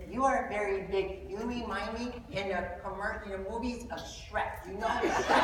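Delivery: put-on soft, slow, earnest little boy; a hint of a small child being blunt. Son tells the tall man he looks like Shrek, slow and soft. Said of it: "looks at me and goes".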